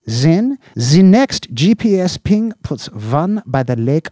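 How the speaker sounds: high, loud impatient boss voice; Slope interrupting impatiently. Acted. Chief cutting off his officer, impatient. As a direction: cut him off and rattle on. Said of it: "Slopes interrupted".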